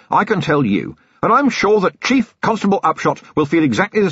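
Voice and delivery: hammed-up gratitude played to the mob; loud public thanks. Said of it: "and said loudly".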